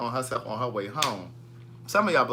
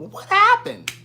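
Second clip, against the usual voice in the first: much higher, louder mock question; mocking viewers; 7 dB louder than usual. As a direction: squeak like a clueless viewer. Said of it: "They still talking about".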